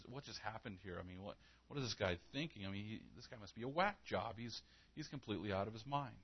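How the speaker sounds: soft, fast nervous muttering; panicked muttering. Retold or imitated. Terrified brothers muttering about the governor, quick and hushed. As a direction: whisper it fast to each other, spooked. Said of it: "They're like".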